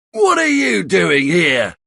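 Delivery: high, accusing challenge; angry shout. Acted. Charlie confronts Bill in the living room, angry high shout. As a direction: confront the intruder head-on. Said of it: "he shouts angrily".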